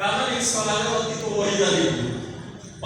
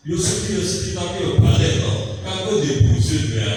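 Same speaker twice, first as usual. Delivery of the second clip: emphatic reply; 6 dB louder than usual. Retold or imitated. Teacher's emphatic reply retold.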